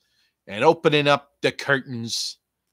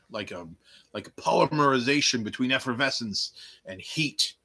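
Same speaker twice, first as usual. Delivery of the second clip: usual speaking voice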